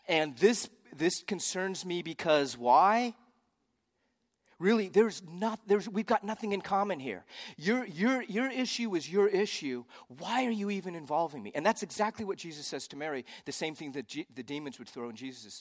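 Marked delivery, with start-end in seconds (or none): 0.1-11.5 high, loud sarcastic push-back; incredulous sarcasm, stretching the opening words. Acted. Preacher translating Jesus' reply to his mother, sarcastic. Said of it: "sarcastically, we would translate it this way".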